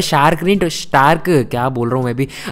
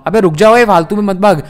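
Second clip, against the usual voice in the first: 1 yell after dog; 4 semitones higher, 5 dB louder than usual. Real, not acted. Yelling at runaway dog.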